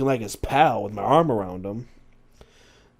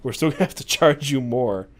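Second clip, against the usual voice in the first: lightly imitated Englishman; reply with a touch of British accent; 4 dB louder than usual. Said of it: "The Englishman laughed and said".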